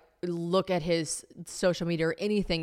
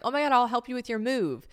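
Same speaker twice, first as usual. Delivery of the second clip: higher, mock-eager gush; overeager offer; 6 semitones higher than usual. Offering an ex help moving, mock eagerness. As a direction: play up being too keen to help.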